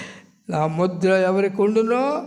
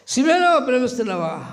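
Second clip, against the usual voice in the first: higher, stressing సిమేను; single out సిమేను, higher; pleading question; 6 semitones higher, 3 dB louder than usual. Acted. Jesus questions Peter.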